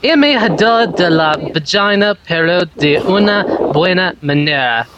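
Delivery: Spanish read with a very bad accent; terrible Spanish accent. Real, not acted. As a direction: stumble through Spanish in a poor accent. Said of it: "that's the worst Spanish accent".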